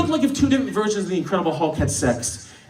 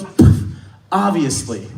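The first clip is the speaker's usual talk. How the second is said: dismissive scoff; 4 semitones lower, much slower than usual. Retold or imitated. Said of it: "insanely aggressive way".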